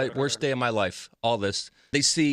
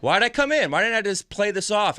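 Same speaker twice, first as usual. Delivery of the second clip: higher, exasperated repeat of the question; exasperated regret; 5 semitones higher than usual. Retold or imitated. Telling cohosts about the hospital visit, exasperated and higher. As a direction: throw it up in disbelief at yourself.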